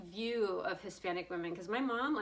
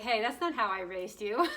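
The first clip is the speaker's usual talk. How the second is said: mock scolding; 5 dB louder than usual.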